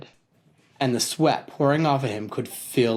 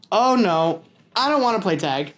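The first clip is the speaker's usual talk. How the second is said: put-on higher, worried kid; reluctant refusal; 6 semitones higher than usual. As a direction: back away from the game. Peter voiced refusing.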